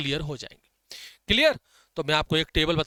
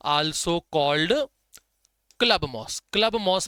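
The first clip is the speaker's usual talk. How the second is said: slow dictation; much slower than usual. Shown as a demonstration. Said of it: "club moss याद रखना".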